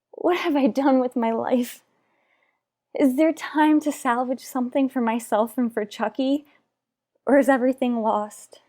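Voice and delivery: desperate plea. Acted. Wife breaking down over her life.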